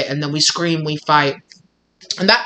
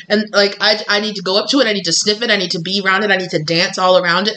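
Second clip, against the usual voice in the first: excited cat; 4 semitones higher, faster than usual. Retold or imitated. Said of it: "cats are like".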